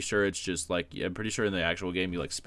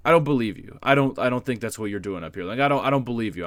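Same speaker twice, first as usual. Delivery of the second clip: stern disbelief; 2 semitones higher, 5 dB louder than usual. Retold or imitated. Teacher doubting the student's excuse.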